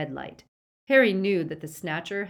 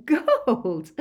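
high, loud, drawn-out derision; mock the word with a touch of laughter; incredulous scoff; Bellatrix's scornful laugh; 7 semitones higher, 8 dB louder than usual. A narrator's reading. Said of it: "laughed Bellatrix".

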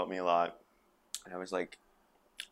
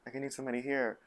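acted-out hushed, whispered plea; scared whisper; 5 semitones higher, 6 dB quieter, faster than usual. Retelling first shooting days, scared whisper. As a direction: whisper it as a retold moment of fear. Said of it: "really down on myself and really scared".

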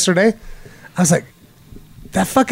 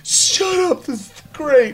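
mock fan shushing; 7 semitones higher, 4 dB quieter, slower than usual. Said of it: "And she's like".

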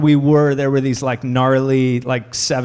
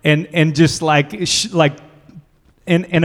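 mocking California accent; 3 semitones higher than usual. Spanish teacher mocking Americans in a California accent. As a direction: lay on a California surfer accent to tease. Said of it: "in, like, a mocking California accent".

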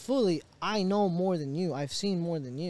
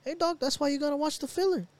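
lightly voiced teasing friend, higher; 8 semitones higher than usual. Friends telling him to watch filler, light teasing. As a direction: tease him like a know-it-all buddy. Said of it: "They're like".

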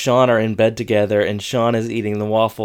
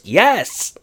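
sheepish Corey; 8 semitones higher than usual. Retold or imitated. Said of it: "And Corey goes".

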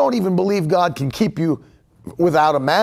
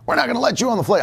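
higher-pitched imitation of flustered airline staff; mock freaking out; 6 semitones higher, much faster than usual. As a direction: imitate someone mildly freaking out, pitch raised. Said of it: "they were just freaking out".

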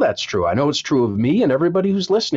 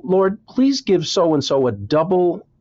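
earnest prayer. Retold or imitated.

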